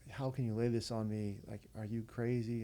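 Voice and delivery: mildly agitated retold rant; a touch of exasperated outburst; going off. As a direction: imitate pleading disbelief, piling up questions. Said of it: "he was just kinda going off".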